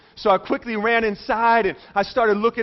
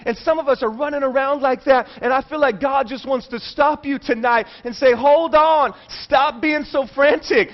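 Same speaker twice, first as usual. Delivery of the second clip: high, driving sermon delivery; preaching; 3 semitones higher than usual. Real, not acted. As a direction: preach it with urgency, piling up phrases. Preaches with force.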